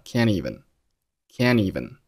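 "can't even" with t dropped; linked "can't even". Shown as a demonstration. Teacher showing how "can't even" links together. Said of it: "can和even连读成了can't even".

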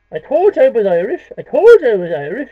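loud proud shout. Acted. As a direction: boast it out loud. Shouted boast.

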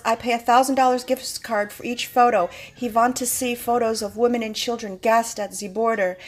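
mock foreign accent, w said as v, th as z; George Soros mock accent. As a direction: put on a light foreign accent for the villain quote. Voicing George Soros's caption.

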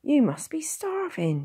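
high whispered concern; whispering. A narrator's reading. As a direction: breathe it out with worry. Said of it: "she said".

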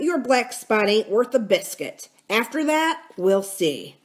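emphatic, high-starting phrases that fall away; assertive pirate captain. Acted. Silver tells the mutineers he is still captain, assertive. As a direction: assert your command with scorn.

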